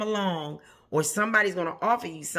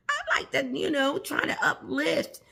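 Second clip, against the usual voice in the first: laughing it out, much higher; 9 semitones higher than usual. Real, not acted. To her viewers about herself, laughing. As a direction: giggles through the words.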